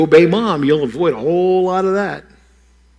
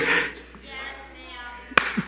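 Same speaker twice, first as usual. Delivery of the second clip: with more feeling; 15 dB quieter than usual. Shown as a demonstration. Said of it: "with a little more feeling".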